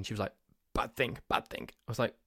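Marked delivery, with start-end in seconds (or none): 0.7-1.7 mimicked shock. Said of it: "was shocked into silence".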